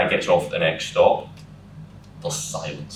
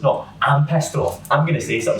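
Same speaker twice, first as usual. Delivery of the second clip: mock angry; 7 semitones higher than usual. Girlfriend defies elderly woman.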